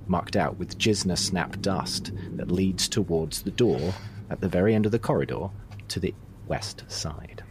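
game master setting the scene; story narration. Acted. GM sets the scene.

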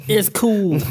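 high, put-on child voice; imitated impressed kid. Co-host plays kid sent back in time, mock wonder. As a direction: pipe up like an easily impressed kid. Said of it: "send a kid back there".

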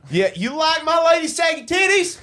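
high-pitched mock redneck shout; hollering redneck. Redneck showing off his lady, high hollered boast.

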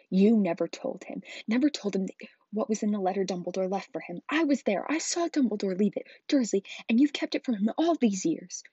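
loud, accusing outburst; furious accusation that rises as it goes; Hagrid trembling with rage. A narrator's reading. Giant accuses Dursley of hiding the letter, enraged. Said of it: "his every syllable trembled with rage".

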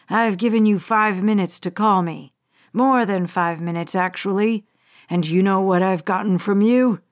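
a hint of a patient, threatening hijacker; menacing hijacker. Hijacker Bradley addresses Weston.

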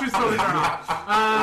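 breaking up in laughter; laughing protest. Real, not acted. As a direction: talk through giggles. Group laughing.

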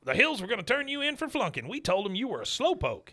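high-pitched character voice; high, animated mock scolding; acted-out complaint. Acting out Buck's complaint.

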